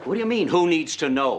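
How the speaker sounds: indignant half-yell. Acted. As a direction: throw the question back angrily. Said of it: "You don't have to yell at me".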